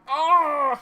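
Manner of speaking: loud, high cry of dismay; high exasperated wail; anguished groan. Real, not acted. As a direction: howl out a drawn "oh" at the miss. Anguish at missed chance in game.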